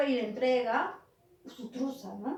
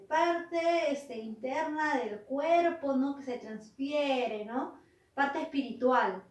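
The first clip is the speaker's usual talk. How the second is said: slow, drawn-out reading aloud; reading a definition; much slower than usual. Acted. Devil looking up alma in the dictionary, reading slowly. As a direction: read it out haltingly, word by word.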